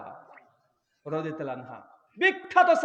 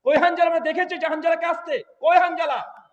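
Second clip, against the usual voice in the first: loud, higher anxious calling; searching shout; 7 semitones higher, 6 dB louder than usual. Retold or imitated. Companions searching the battlefield, loud anxious calls. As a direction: call out searching for him. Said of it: "কিছু সাহাবী বলছে".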